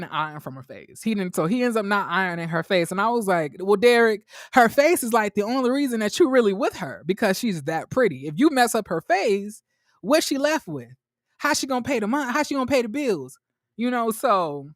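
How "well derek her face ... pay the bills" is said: exasperated reasoning. Retold or imitated. Mock reasoning with Derek about her face.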